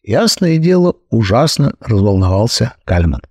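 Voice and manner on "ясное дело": usual speaking voice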